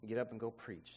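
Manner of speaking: low, quiet, firm voice of God. Retold or imitated. God stops the crying preacher, low quiet command. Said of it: "the voice of God said".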